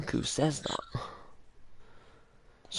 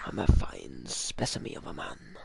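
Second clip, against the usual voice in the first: much lower, posh English accent; 10 semitones lower than usual. Shown as a demonstration. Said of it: "in a posh voice".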